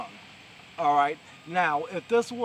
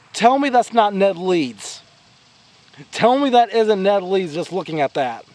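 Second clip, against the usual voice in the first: excited shout; 3 semitones higher, 13 dB louder than usual. Real, not acted. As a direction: shout it out in disbelief. Excited at a comic cover.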